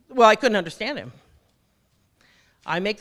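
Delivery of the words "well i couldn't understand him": exasperated husband. Retold or imitated.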